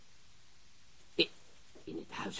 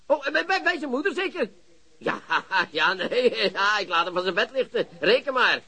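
gloating laugh. Acted. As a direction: chuckle with glee at the catch. (lachend, vol leedvermaak)

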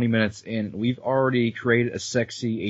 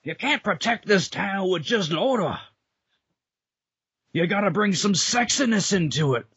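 cheesy cop voice; 7 semitones higher than usual. Pretend. Dubbing cop.

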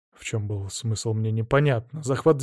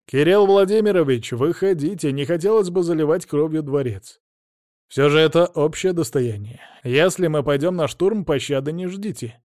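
raised voice across the square; calling out loud; 3 semitones higher, 4 dB louder than usual. Acted. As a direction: call the duke out firmly. Prince calls out to palace. (громко, через площадь)

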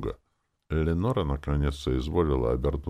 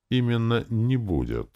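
higher-pitched, weighty pronouncement; self-important; 8 semitones higher than usual. A narrator's reading. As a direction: state it with importance. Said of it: "сказал я важно".

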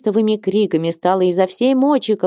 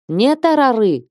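wailing shout; 6 semitones higher than usual. A narrator's reading. Nun Ilaria wails at the sisters, тарары shrieked high. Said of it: "В источный голос вопит мать Илария".

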